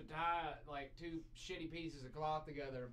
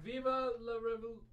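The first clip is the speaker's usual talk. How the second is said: rallying cry; 6 semitones higher, 4 dB louder than usual. Acted.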